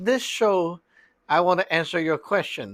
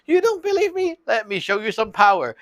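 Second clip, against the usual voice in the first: indignant god; 5 semitones higher, faster than usual. Retold or imitated. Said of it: "the god is like".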